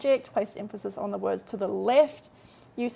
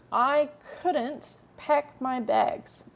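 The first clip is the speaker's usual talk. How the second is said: each word drawn out for learners; very slow model sentence; 3 semitones higher, much slower than usual. Shown as a demonstration. Teacher to students, modelling the sentence very slowly. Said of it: "teacher models the translation".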